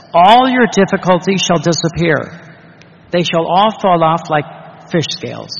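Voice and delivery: loud, ringing declaration; emphatic promise. Acted. Preacher voicing Jesus's promise, loud and declaring. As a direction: proclaim it to the congregation.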